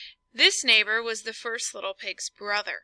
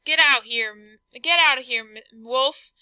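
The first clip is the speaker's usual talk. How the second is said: lightly voiced rude pig, louder; 5 dB louder than usual. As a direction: snap it back as the pig. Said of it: "what that rude little porker answered".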